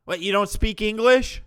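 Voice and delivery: high, loud, disbelieving question; incredulous yelling. Real, not acted. Host challenging the robot-voice video maker, high incredulous yell.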